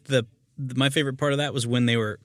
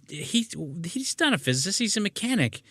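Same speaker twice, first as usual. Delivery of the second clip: mock Meg Ryan; 9 semitones higher than usual. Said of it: "And she's like".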